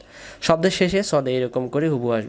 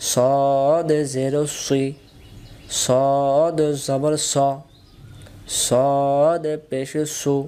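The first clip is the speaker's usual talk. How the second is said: slow chant with long-held letter names; spelling recitation; much slower than usual. Shown as a demonstration. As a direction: stretch each letter, then land on the syllable. (টেনে টেনে বানান করে পড়া)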